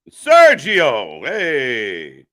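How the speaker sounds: loud call across the room. Real, not acted. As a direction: shout his name to grab attention. Calling out to a friend.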